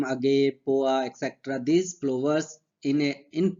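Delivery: slow, deliberate dictation of textbook lines; dictation reading. Acted. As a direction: read each phrase out slowly so students can write. Slow dictation of English notes. (धीमी आवाज़ में notes लिखवाना)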